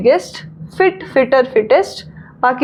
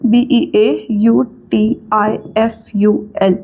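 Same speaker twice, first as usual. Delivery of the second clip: slow spelling; 4 semitones lower, much slower than usual. Shown as a demonstration. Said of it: "तो ब्यूटीफुल".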